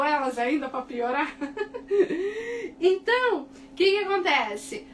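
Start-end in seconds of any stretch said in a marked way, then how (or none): 1.4-2.7 high embarrassed laugh; laughing at herself for forgetting words; a high giggle at her own slip; self-mocking laugh. Real, not acted. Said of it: "eu esqueço as palavras em português".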